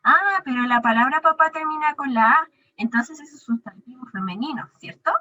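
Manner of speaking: a hint of a puzzled pupil; mock confused student. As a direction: play a student's wrong guess. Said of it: "podríamos pensar".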